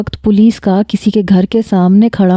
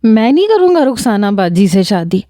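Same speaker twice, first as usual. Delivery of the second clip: tearful refusal. Retold or imitated. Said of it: "رونا پیٹنا مچا دے گا".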